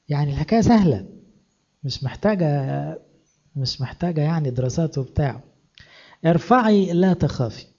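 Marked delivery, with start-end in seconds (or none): 6.2-7.6 slow, high-pitched call; slow proclamation, pitched up; raised-voice urging. Acted. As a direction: urge it out with a lifted voice. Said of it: "ارفع صوتك".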